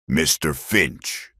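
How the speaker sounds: slow, soft menacing address; deadly. Acted. The marshal turning on Finch, deadly quiet. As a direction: say his name with quiet menace. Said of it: "his voice deadly".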